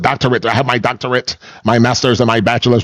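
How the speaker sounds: "doctorate", "master's", "bachelor's" each stressed in imitation; mock emphasis. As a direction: boastfully lean on "doctorate" and each degree after it. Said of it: "They add emphasis to it".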